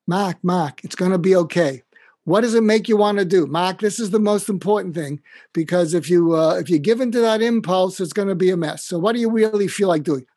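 put-on a kindly old dean calling him by name, talking him down; Boston Irish mentor. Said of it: "I'm gonna do my Mac imitation".

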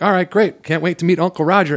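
high, overly bright; mock eager. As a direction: fake enthusiasm for meeting him. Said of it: "I'm like".

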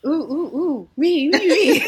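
high, eager pick-me voice. Pretend. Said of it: "I say that like there's someone else".

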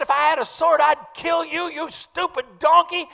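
loud, high, furious yell at the donkey; furious shout. Retold or imitated. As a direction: threaten the beast at the top of your voice. Balaam raging at his donkey.

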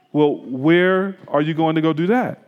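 imitating a posh British accent; a gently put-on posh British gentleman; soft-spoken posh British. British friend asking the pastor about his plans, soft-spoken posh British accent. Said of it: "in a very soft-spoken, posh British accent".

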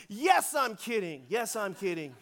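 unhurried, soothing admission; calming reassurance. Retold or imitated. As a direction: imitate a pastor talking kids down. Pastor calms the panicking teens.

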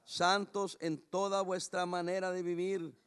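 scripture read slowly, word by word. Shown as a demonstration. Pastor reading the verse slowly to the congregation. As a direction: read it slowly so it won't hurt. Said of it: "Se lo voy a leer despacito".

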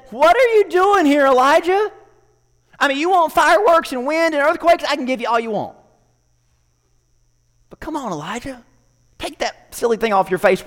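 gently mock Elijah's hidden face; a hint of a teasing God. God teasing Elijah about his veil, amused.

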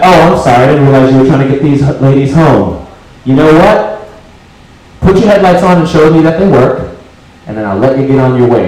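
cop switches to a courteous, apologetic tone; suddenly polite cop. Retold or imitated. Cop, realizing two women in back, turns politely apologetic. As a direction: sound suddenly friendly and deferential. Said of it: "his whole timbre changes".

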